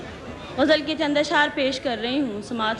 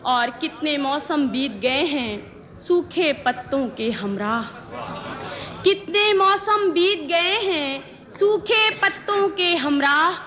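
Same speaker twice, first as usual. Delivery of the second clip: ghazal recitation; slower than usual. Acted. Poet presenting her ghazal to the gathering, measured recitation. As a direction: recite each line deliberately, pausing between phrases.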